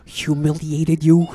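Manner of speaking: soft, sarcastic hush; fake-sorry whisper; mock apology. Roma mocking Dave with a hushed fake apology.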